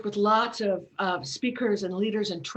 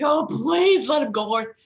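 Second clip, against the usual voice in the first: mock plea; 3 semitones higher, 7 dB louder than usual. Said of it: "I was just like".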